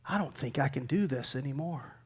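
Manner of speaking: very soft, low murmur of giving up; hushed, drained admission of defeat; defeated and weary. Acted. Preacher voicing someone worn out by life, quiet and defeated.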